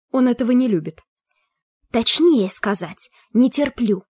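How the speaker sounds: a touchy spirit correcting her; sulky ghost skull. Acted.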